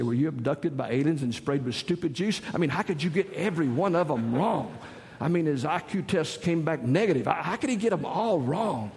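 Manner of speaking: exasperated rant, pitch climbing; mock exasperation. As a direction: rail in comic disbelief at the waiter. Acted rant at the bad waiter.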